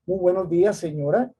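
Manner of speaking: mild polite doorman voice; polite greeting. Retold or imitated. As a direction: greet the visitor kindly, lightly acted.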